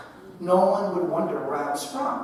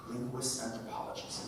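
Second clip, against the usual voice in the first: dry ironic echo; 6 semitones lower, 16 dB quieter than usual. Shown as a demonstration. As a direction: savour the title with irony. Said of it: "man, I love academia".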